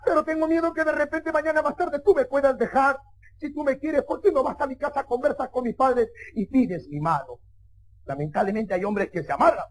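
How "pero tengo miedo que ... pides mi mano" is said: lightly voiced worried girlfriend; long-held opening into a pleading request; a hint of a girlfriend pleading; girlfriend's plea. Acts the girlfriend asking for marriage.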